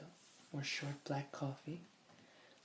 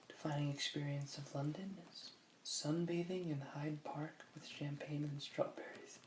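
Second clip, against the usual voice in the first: whispering. Acted. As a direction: breathe the words, no voice. Reading aloud in a whisper.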